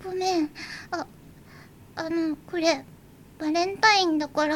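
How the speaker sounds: ぐっと声を落とし、おずおずと; 照れを隠しきれずに小さく; 恥ずかしそうな小声. Acted. 照れてチョコを渡す. (好きな男の子に小声でおずおずと)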